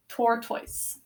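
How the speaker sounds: "tortoise" said softly to close; soft spelling-word say. Shown as a demonstration. Teacher to class, reads the word to finish. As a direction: say "tortoise" quietly as the final read. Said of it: "Let's go over the spelling".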